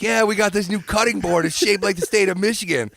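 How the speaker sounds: a hint of chipmunk squeak. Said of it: "He's like".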